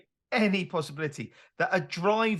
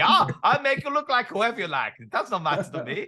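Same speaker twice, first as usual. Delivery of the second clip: German surgeon; 2 semitones higher than usual. Retold or imitated. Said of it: "this strange German surgeon".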